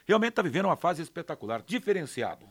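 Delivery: normal talking voice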